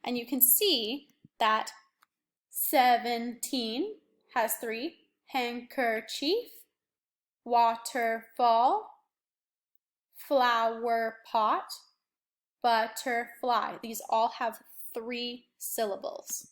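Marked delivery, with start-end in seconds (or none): 2.5-13.8 each word said slowly, its beats spaced out; slow syllable count. Shown as a demonstration. Teacher counting syllables out for the class, slow and spaced. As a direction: sound out every beat for the chin. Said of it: "use your chin bumps here".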